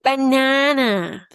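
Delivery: banana slow with nasal last na; slow banana, both na nasal; student's overdone banana. Shown as a demonstration. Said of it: "Make sure that last one is not as nasal".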